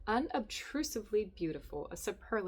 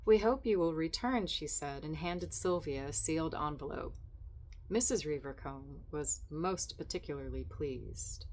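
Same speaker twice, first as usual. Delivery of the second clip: measured reading of a literary story; lightly voiced literary narration. Reading resumed.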